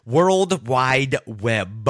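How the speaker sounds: each word stretched very slowly. Shown as a demonstration. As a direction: drag out the warmup phrase. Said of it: "I'm all worked out now".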